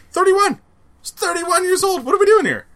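high, loud disbelief; incredulous. Real, not acted. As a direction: shriek it in disbelief. Disbelief at his age.

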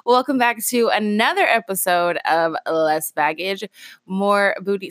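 groggy just-woke-up voice; morning voice, fresh out of bed. Real, not acted. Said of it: "this is my morning voice".

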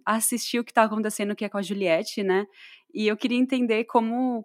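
ordinary talk

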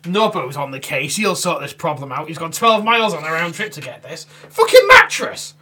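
mock the TV build-up, then explode; hammed-up show hype peaking on mattress; hyped-up voice-over. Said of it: "it builds it up, it hypes it up".

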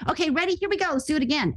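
lightly voiced crew. Crew calling to restart take.

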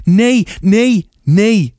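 high, loud repeated cries; distressed refusal. A narrator's reading. Arie rocks with hands over ears, high distressed refusal.

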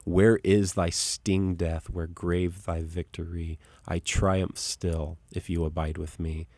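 slow, deliberate verse recitation; measured recital, strong opening then settling; reciting a hymn. Retold or imitated. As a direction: declare the hymn line slowly, pausing between phrases. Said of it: "this line in it where it says".

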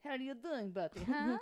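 high, gentle check-in with a dog; pet-talk voice. Shown as a demonstration. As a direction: coo a question to a pet. Demonstrates talk to her dog.

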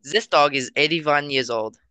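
put-on German accent; German-accented parody voice; mock German accent. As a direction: deliver it in a fake German accent. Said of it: "went off of the accent from".

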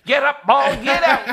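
high, shouted home-run call; baseball voice. Acted. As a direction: yell it like an excited commentator. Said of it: "Imagine the baseball voice saying that".

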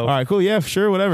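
high, breezy brush-off; dismissive. Pretend. Rider brushes off the investigator, high and breezy. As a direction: wave it off, eager to be done.

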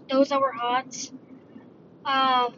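mid-yawn; words stretched by a yawn. Real, not acted. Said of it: "I'm yawning again".

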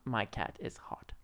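very soft unvoiced whisper. Shown as a demonstration. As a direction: barely breathe the words. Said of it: "I gotta move my lips".

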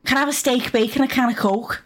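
a Geordie attempt that slides into Scouse; a half-hearted Geordie accent that lands somewhere else; failed Geordie accent. Shown as a demonstration. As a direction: try for Geordie and miss. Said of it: "that's just not Geordie".

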